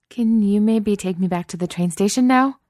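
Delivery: high, loud, mortified squeak. A narrator's reading. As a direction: squeak out a plea to escape. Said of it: "she squeaks".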